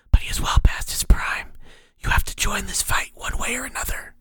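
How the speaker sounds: eerie unvoiced whisper of a hidden mentor; whispering inner voice. The mysterious voice counsels Ank, eerie whisper. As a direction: breathe it like a voice inside his skull.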